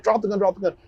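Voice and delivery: half-hearted retold command; retold yell. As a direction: replay the shouted order, lightly. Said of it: "And I was yelling".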